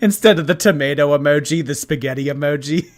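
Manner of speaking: real laughter running into the words; laughing. Real, not acted. Amused by a chat suggestion.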